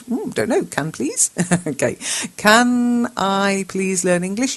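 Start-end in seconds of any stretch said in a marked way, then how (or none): 2.4-4.6 slow corrected read. Shown as a demonstration. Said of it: "That might be what you meant to ask".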